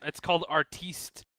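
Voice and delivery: slow mock French accent on artiste; a lazy fake French accent, drawn out. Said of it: "You can't do a French accent".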